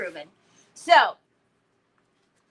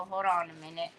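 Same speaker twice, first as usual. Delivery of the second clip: 1 quick hold on; 7 semitones lower, 6 dB quieter, much faster than usual. Shown as a demonstration. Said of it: "I don't like cutting words off".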